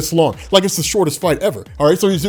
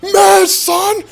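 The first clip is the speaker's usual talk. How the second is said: very high, loud yelp; excited yelp; 13 semitones higher, 4 dB louder than usual. Retold or imitated. Fan spotting Silver Surfer, very high excited yelp. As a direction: squeal it with delight.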